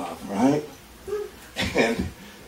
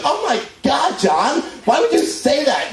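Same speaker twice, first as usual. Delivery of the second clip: shocked outburst; 5 semitones higher than usual. Retold or imitated. Wife throwing him off in shock, high outraged cry. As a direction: recoil in horrified disbelief. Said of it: "she goes".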